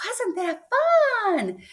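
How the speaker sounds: high, gleeful question; a guide beaming after landing; chirpy instructor. Retold or imitated. Mock instructor asking the shaken jumper after landing. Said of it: "he looks at you and goes".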